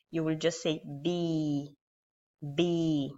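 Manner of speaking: "B" as bi with lips spread, tongue hidden; modelling the kasra syllable; closed smiling bi. Shown as a demonstration. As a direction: smile and say "B". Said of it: "You will close your mouth".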